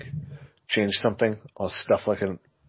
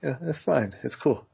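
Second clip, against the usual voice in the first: forced calm, seething inside; 3 semitones higher than usual. Real, not acted. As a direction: pretend it's fine through clenched teeth. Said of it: "You sound like you're seething inside".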